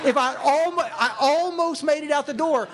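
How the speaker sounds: high, hammed-up groan of regret; comic despair, stretching the key word; anguished lament. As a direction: wail over a narrowly missed escape. Part of him regrets nearly escaping.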